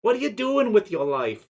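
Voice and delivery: loud, high Jewish mother scolding; Jewish mom voice. Pretend. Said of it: "I can't do a Jewish mom voice".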